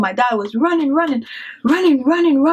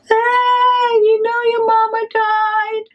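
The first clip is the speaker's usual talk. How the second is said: high, shrill call across the street; retold scream out; 11 semitones higher, slower than usual. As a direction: yell it out from the porch. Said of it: "she just screamed out".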